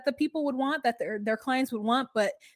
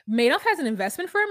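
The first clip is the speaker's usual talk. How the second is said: louder, quicker surprised question; retold surprised question, louder and faster; mock surprise; 3 semitones higher, 5 dB louder, faster than usual. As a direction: Madoff has an investment firm? rising, a bit louder. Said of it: "am I saying the right words".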